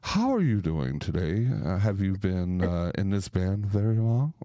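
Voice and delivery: mock-polite, buttoned-up talk-show host; a hint of a prim radio host; stiff formal interviewer. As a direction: play the stiff, proper interviewer for a laugh. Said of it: "We don't talk like that".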